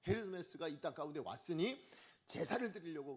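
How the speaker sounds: ordinary delivery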